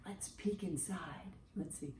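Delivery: soft, hushed voice; hushed peek. Acted. Teacher hushing the class while peeking into the orange egg. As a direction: lean in and go very quiet.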